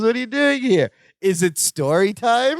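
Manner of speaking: high-pitched, childlike mimicked delight; delighted greeting. Hank spots his good friend Balki, high delighted voice. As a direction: imitate a thrilled reunion with a friend.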